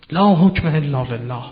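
the Kharijites' slogan, cried out slow and loud; retold slogan cry. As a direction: call it out like a rallying cry. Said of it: "فریاد اینها بلند شد".

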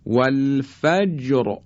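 slow "والفجر" with a thick final R; heavy R. Shown as a demonstration. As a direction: draw out "والفجر", its ر full and heavy. («والفجر» کشیده، با رای درشت)

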